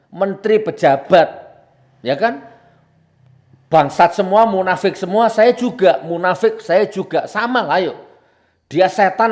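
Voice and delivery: loud, high, punched-out tirade; heated tirade. Real, not acted. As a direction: hurl each insult at them and at yourself. Heated tirade equating everyone with himself.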